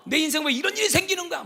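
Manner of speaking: hammed-up frustrated shout at life; imitating angry outburst. Preacher mimicking a hot-tempered person in crisis, mock angry shout. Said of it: "막 화를 내는 거죠".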